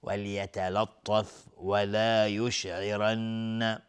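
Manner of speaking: slow "ولا یشعرن" with the final n held nasally; slow recital, lingering on the nasal in "یشعرن"; ghunnah on doubled nun. Shown as a demonstration. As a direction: draw out "ولا" and hum the n of "یشعرن". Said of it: "نون مشدد دو حرکت".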